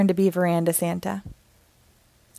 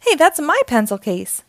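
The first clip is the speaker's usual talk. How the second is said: mild yell; 6 semitones higher, 4 dB louder than usual. Acted. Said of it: "yells Bingo".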